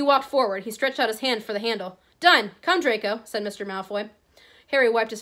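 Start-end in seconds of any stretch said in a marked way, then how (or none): 2.2-3.2 sharp loud order. Acted. Malfoy ends abruptly.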